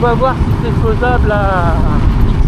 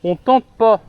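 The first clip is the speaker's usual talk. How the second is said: repeated louder so she hears; slower than usual. Real, not acted. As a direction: say it again, clearly louder.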